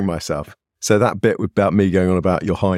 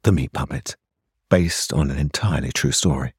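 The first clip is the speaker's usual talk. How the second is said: deep dramatic movie trailer read; mock passion; 5 semitones lower than usual. Shown as a demonstration. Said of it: "Give me another go".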